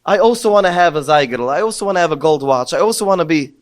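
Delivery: put-on a loud, pleading child's cry to his father; tearful plea. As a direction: beg out loud as if through tears, voice lifted high. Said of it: "he started crying".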